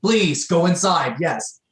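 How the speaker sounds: usher-style call to move along; herding people. Acted. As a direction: hurry the crowd along.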